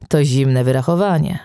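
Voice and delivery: usual speaking voice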